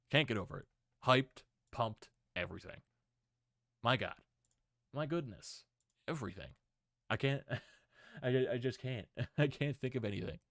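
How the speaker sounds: excited and lost for words, laughing a little; short bursts, too pumped to think; hyped. Real, not acted. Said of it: "excited I am at this point".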